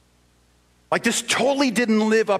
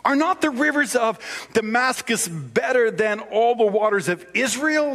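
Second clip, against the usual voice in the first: a touch of a high whine; whiny voice; 6 semitones higher than usual. Retold or imitated. Naaman scoffing at Israel's rivers, lightly whiny. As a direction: complain like a pouting official. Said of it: "I have to use a whiny voice".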